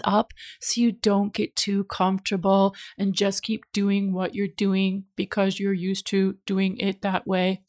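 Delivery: flat mechanical robot monotone. Acted. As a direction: drone it out like a robot. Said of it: "That's my robot voice".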